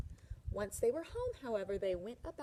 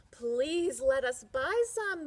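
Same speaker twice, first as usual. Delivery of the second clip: slow, louder pleading; begging; 5 semitones higher, 8 dB louder, slower than usual. Acted. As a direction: beg the husband for strawberries. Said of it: "the wife begged".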